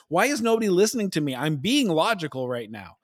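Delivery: high, fast, frustrated plea; the ignored wife demanding to be heard; exasperated outburst. Retold or imitated. Wife protesting nobody listens, exasperated. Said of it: "she's like".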